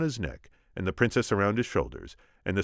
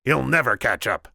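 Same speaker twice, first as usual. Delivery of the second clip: raised, loud cry of defiance; 6 semitones higher, 7 dB louder than usual. A narrator's reading. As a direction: cry it out as the Sicilian boss. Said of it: "the Sicilian cried".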